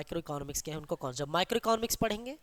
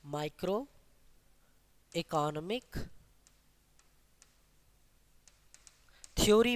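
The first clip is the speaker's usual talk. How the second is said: long pauses between the words; spaced out as if for note-takers; word-by-word dictation. Real, not acted. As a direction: dictate it one word at a time.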